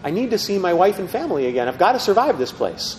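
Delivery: a frightened prisoner pleading through tears; mild retold sobbing plea; pleading, near tears. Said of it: "he starts crying".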